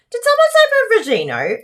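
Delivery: high, loud and fast like a jingle call; mock game-show excitement; excited announcement. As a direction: shout it like an ad for the drink. Playful ad-style announcement.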